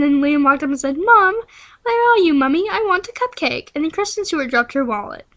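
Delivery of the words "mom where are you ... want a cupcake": put-on high, loud child calling for mom; whiny kid. Little Liam calling for his mom, whiny child voice. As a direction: play a whining little boy.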